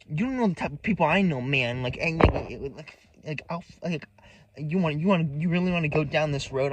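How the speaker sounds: badly put-on Latina hoodlum accent; wannabe Latina hoodlum. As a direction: imitate a wannabe Latina hoodlum making threats. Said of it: "she's a wannabe fucking Latina hoodlum".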